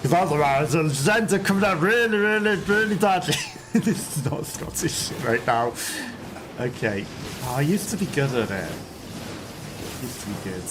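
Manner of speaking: put-on Scottish accent that slides into Irish; attempted Scottish accent. Streamer practising a Scottish accent live, Irish-leaning Scottish accent. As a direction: reach for Scottish and land half Irish. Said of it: "The Scottish accent is".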